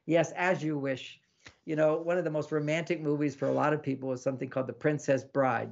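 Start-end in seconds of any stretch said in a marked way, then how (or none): 0.1-1.2 slow, hammed-up eager to please; a grand, playful yes to her wish; exaggerated playful. Shown as a demonstration. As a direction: draw it out like a delighted servant. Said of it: "almost an exaggerated, playful response".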